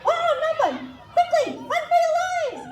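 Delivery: high, urgent pirate shout; pirate captain shouting. A narrator's reading. Captain yelling at his crew to flee. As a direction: yell the retreat in a panic. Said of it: "Captain Barnacle shouted".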